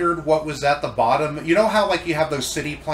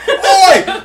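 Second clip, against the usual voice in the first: much higher, loud angry Oi; Russell Crowe impression; 12 dB louder than usual. Friend shouts Oi as Russell Crowe at the virus. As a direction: bark it like a furious actor. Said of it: "what about Russell Crowe".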